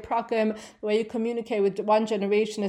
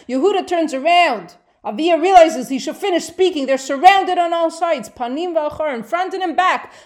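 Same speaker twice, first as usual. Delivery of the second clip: excited storytelling; 6 semitones higher, 7 dB louder than usual. Real, not acted. Teacher recounting the surrounded army.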